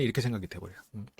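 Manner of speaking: ordinary talk, nothing marked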